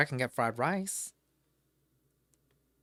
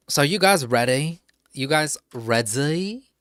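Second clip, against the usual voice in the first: hype call; 3 semitones higher, 10 dB louder than usual. Real, not acted. Hyping up chat to start.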